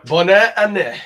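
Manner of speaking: Bonne année said the French way, nasal vowels, stress on année; careful French Bonne année, falling at the end; French new year greeting. Shown as a demonstration. Host asked for French, so says Bonne année in French. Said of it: "What is French for, like, Merry Christmas".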